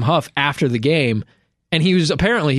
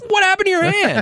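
much higher, alarmed father's voice; imitating a shocked dad, pitched way up; startled dad. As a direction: play the dad who just saw the finger. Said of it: "And his dad's like".

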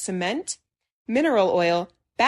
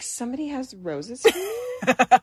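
slow, rising hopeful question; acting surprised and flattered; hopeful surprise; 4 semitones higher than usual. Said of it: "I one hundred percent was like".

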